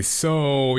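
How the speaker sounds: drawn-out SO; dangling so. Shown as a demonstration. Explaining what people mean by it, dangling SO. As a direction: stretch SO and let it hang. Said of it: "when they say".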